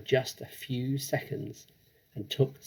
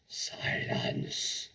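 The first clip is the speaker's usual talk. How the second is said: shout; 8 dB quieter than usual. A narrator's reading. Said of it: "shouted the Trunchbull".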